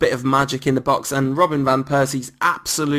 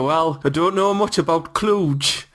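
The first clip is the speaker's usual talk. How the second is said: Shearer impression; 4 semitones higher, slower than usual. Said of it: "I'm really gonna end up doing a Shearer".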